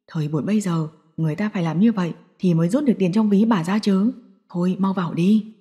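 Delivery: a tired husband shrugging it off; old father. Acted. Ông Khải answers his wife about the guard.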